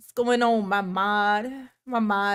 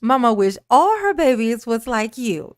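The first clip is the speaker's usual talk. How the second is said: louder emphatic repeat; 7 dB louder than usual. Real, not acted. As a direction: repeat the compliment much louder, stressing all. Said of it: "Y'all hear that? Y'all hear what Mama just said?".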